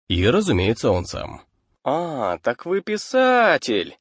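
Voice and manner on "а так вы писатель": drawn out, high surprise; surprised exclamation. A narrator's reading. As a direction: exclaim slowly, as if suddenly realizing. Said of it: "воскликнул Гейбл".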